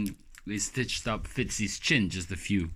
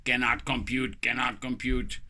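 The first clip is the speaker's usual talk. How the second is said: a hint of a robot repeating itself; 4 semitones higher than usual. Mocking the nurse as a confused robot, lightly robotic. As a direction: say cannot compute like a stuck machine. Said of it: "almost like a".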